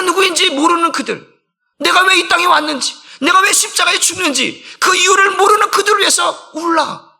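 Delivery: impassioned pulpit shout; preaching at full force. Acted. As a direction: build it up to a fervent cry.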